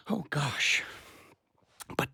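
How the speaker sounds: soft breathy whisper; words fading out as it sinks in; whispered under his breath; whispered sigh. Acted. Overwhelmed husband on voicemail.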